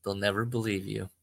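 calm him down gently; pacifying tone. Acted. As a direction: friend soothing a panicked old Joe, pacifying. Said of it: "in a pacifying tone".

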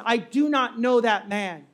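slow, deliberate denial; measured, emphatic refusal; firm denial. Acted. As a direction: say each word squarely and firmly. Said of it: "looks this girl square in the eyes".

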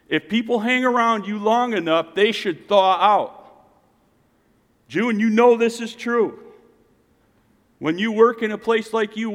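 high, emphatic preaching voice; preaching exhortation. Real, not acted. Preacher telling a worker their influence matters, emphatic preaching. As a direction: drive it home to the congregation.

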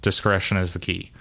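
low, measured radio report; understated guard on the radio. Pretend. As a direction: report in to the team leader in a low voice. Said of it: "hear him over the radio go like".

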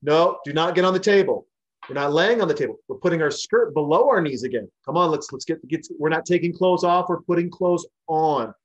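mock-schoolmarm telling her to sit down properly; scolding a rowdy customer.

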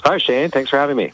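husky sick voice, sultry voice; rough sultry voice from a cold. Real, not acted. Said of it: "I'm doing my sort of sultry voice today".

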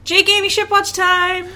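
high, loud, hammed-up show announcer; segment announcement. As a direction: call out the segment like a game-show host.

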